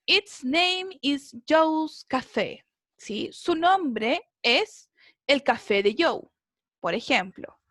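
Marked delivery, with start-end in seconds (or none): 0.0-2.7 slow example read. Shown as a demonstration. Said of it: "acá dice possessive".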